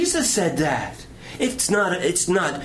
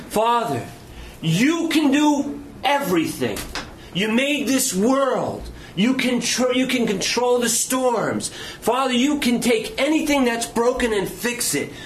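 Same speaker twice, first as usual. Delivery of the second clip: high, insistent appeal to God; impassioned prayer; 4 semitones higher than usual. Retold or imitated. Jesus praying to the Father, impassioned pleading. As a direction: plead earnestly, pressing each phrase.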